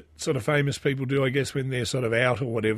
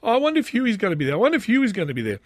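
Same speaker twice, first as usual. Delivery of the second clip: hopeful wife; 6 semitones higher, much faster than usual. Retold or imitated. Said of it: "My wife always goes".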